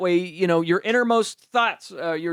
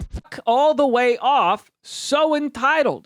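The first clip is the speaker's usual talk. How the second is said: slow, dragged-out mock sneer; mock nasty fiancé; 5 semitones higher, 3 dB louder, slower than usual. Reading the fiancé's rude text in a slow mock sneer.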